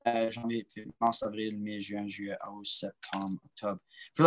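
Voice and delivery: months listed in French, softly, one by one; reeling off janvier, février in French; French month names. Shown as a demonstration. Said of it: "I don't know how to say it in".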